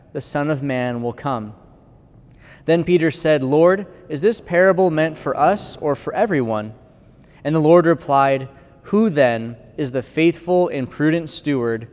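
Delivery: solemn proclamation of Scripture; gospel reading. Acted. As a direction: read it like at the altar, measured.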